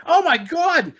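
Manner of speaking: high, loud re-enacted gasp of horror; retold shock. Recalling the arrow in the neck, high shocked cry. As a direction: cry out as if just seeing it happen.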